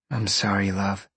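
soft, quiet consoling; tender sympathy. A narrator's reading. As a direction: say it softly to comfort a lover. Woman consoles her partner.

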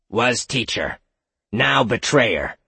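flat, slow monotone creature; monotone monster voice. A narrator's reading. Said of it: "oddly monotone voice".

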